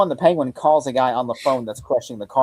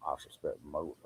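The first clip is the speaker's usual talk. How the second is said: put-on Knives Out accent; 10 semitones lower, 18 dB quieter than usual. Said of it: "Daniel's Craig's Knives Out accent".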